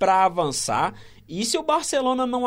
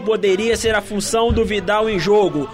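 excited analysis; 5 dB louder than usual. Real, not acted. Analyst still fired up after goal.

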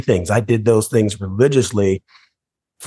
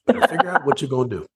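quick, softer, laughing through the quote; laughing repeat; 4 semitones higher, 3 dB quieter, faster than usual. Retold or imitated. Son retelling his dad's words, laughing. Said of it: "That's what he said".

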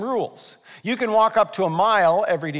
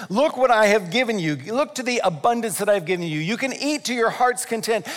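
raised, emphatic, enthusiastic offer; lavish invitation; 4 semitones higher, 3 dB louder than usual. Acted. God showing Eve the garden's abundance, expansive enthusiasm. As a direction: present it like a grand banquet.

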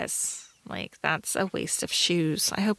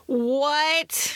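high, disbelieving what; startled, incredulous question; real surprise; 6 semitones higher than usual. Real, not acted. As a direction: react in disbelief at a higher pitch. Shocked at co-host's three-star rating.

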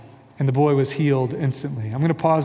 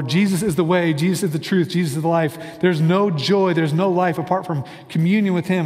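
eager declaration. Retold or imitated. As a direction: proclaim it with eager churchy zeal, lightly mocked. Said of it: "And I say that".

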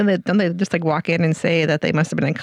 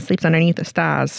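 put-on hillbilly accent. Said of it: "I don't know where that accent just came from".

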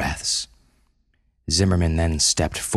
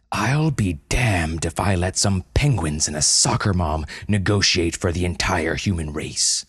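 angry; 2 semitones higher than usual. Acted. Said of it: "flushed with anger".

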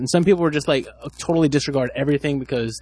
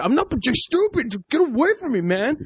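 much higher, whiny imitation; mock defensive guy; 12 semitones higher than usual. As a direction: squeal the denial like a flustered guy. Mocking the guy's denial.

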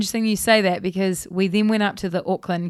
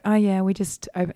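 calmly. Retold or imitated. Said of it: "you said that so calmly".

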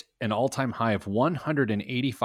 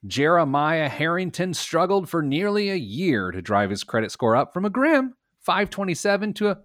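light mock Cockney accent, pitched up; 8 semitones higher than usual. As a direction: read the news in a faint Cockney accent. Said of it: "That was my Cockney accent".

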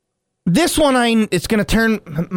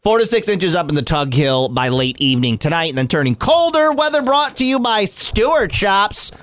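mock weather report.

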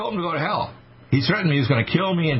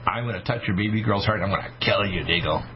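devil's threat; 3 semitones lower, 4 dB quieter than usual. Retold or imitated. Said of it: "the devil told me through this Pindar".

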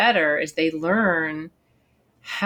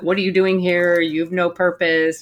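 mock gloomy brain voice. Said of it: "it could sound exactly like that".

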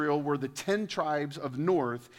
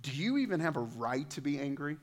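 calm quiet God; 2 semitones lower, 6 dB quieter than usual. Acted. God's reply to Jonah.

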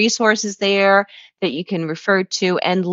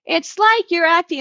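1 teacher voice; 11 semitones higher, 3 dB louder than usual. Retold or imitated. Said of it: "sometimes I would do the".

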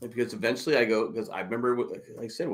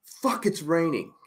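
slow, higher mock complaint; complaining mom; 7 semitones higher, slower than usual. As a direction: whine it like an annoyed mom. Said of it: "my mom was complaining".

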